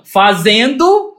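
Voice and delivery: "Fazendo?" drawn out very slowly with a rise; mocking drawl. Mocking the kids' bare WhatsApp question, drawn out slowly. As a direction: stretch "Fazendo?" out to mock how curt it is. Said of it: "mas não".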